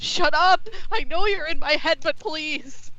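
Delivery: annoyed shout. Acted. Character yelling at voice in head.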